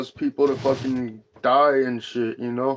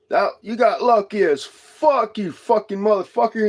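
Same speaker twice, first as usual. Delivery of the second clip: hollered insult; 6 semitones higher than usual. Retold or imitated. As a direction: shout it after the driver who nearly hit you. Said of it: "I hollered out my window".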